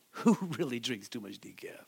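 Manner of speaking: soft joking whisper; whispered aside. Real, not acted. Pastor whispering a joke to the congregation, hushed.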